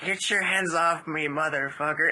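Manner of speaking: quoting the pony's rude line in a put-on voice; Pinkie Pie quote. Friend describes the pony video, mimicking Pinkie Pie. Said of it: "She's like".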